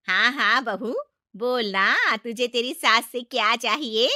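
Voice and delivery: loud, grand offer; showy aunt-in-law. Acted. Aunt-in-law grandly offers her bride a gift, loud showy voice. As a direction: play the generous elder. Chachi generous show.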